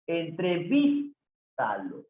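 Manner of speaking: Entrevístalo drawn out syllable by syllable; slow demo. Shown as a demonstration. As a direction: stretch entrevístalo for the student. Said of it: "Es una palabra esdrújula".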